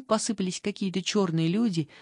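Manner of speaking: ordinary delivery, nothing marked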